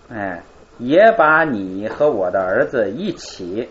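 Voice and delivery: slow and measured, stress on 也; slow, deliberate reading. Shown as a demonstration. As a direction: read it out slowly, leaning on 也 at the start. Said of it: "咱们看一下他的翻译".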